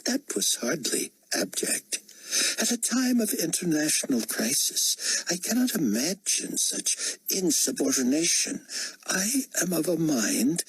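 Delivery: high, imperious rebuke; indignant potentate. Acted. Potentate rebuking a cabinet interrupter, high and indignant. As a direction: scold as an affronted ruler.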